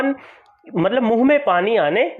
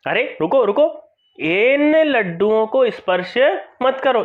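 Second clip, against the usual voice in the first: mock angry stop; 4 semitones higher than usual. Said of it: "सक्रोधम, क्रोध से देखते हुए".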